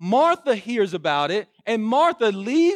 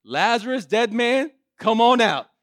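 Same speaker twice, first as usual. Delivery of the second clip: commanding call; 3 semitones higher, 5 dB louder than usual. Retold or imitated.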